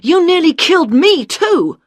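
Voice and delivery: loud, high alarmed shout; shouting warning. Acted. Tarkis yells at Liz holding the gun, loud alarmed shout. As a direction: bellow it as a frantic warning. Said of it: "shouted Tarkis".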